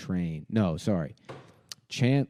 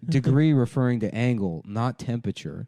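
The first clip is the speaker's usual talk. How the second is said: a hint of Chandler's dry voice; 4 semitones higher, 5 dB louder than usual. Chandler corrects Joey, lightly voiced. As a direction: correct him with Chandler sarcasm. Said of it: "That's very in his voice".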